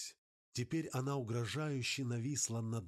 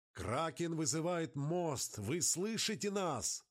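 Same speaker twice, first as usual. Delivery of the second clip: distant radio voice; 7 semitones higher than usual. Acted. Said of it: "Сквозь него пробивались далёкие голоса".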